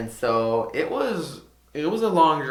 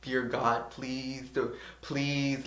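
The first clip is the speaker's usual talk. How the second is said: a soft, pleading prayer that drops much softer; hushed prayer; 7 dB quieter, much slower than usual. Retold or imitated. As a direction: beg God quietly under your breath.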